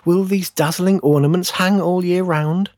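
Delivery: high, hopeful little tree voice; wondering fir tree. A narrator's reading. Fir tree admiring its ornaments, high and wondering. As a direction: ask it high with naive wonder.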